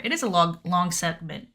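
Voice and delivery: stuttering; stumbling stutter. Real, not acted. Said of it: "Oh, I'm stuttering, sorry".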